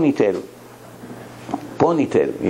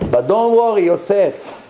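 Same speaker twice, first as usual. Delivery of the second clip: Ami's way of talking; 5 semitones higher than usual. Retold or imitated. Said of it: "That's the way he talks".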